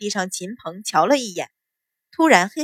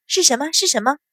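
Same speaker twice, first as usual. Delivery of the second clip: eager question in a raised pitch; hurried, eager asking; 5 semitones higher, faster than usual. Acted. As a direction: ask at once, keen to know. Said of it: "白芍忙问".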